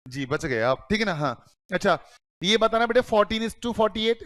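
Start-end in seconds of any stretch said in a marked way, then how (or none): 3.0-4.2 fourteen is to forty-eight, word by word; slow dictation. Shown as a demonstration. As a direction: spell out the ratio slowly. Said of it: "इसका मतलब क्या है?". (धीरे-धीरे बोलकर लिखवाना)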